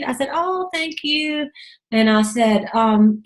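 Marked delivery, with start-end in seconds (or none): 0.3-1.5 grateful. Retold or imitated. Retold reply to a compliment.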